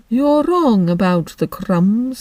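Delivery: slow, mournful creature voice; Mock Turtle. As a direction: drag it out like a sad old turtle.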